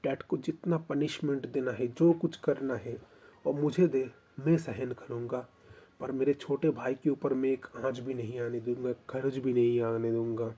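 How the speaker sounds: passionate vow. Acted. Elder brother passionately protects sibling.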